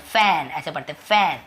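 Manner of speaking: "फैन" as fan, open ae; teacher modelling the open vowel in "फैन"; correct ae pronunciation. Shown as a demonstration. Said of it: "उसे हम ऐसे बोलते हैं".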